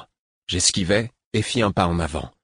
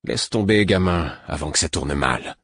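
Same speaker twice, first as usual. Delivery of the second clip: menacing. Acted. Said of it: "d'un ton menaçant".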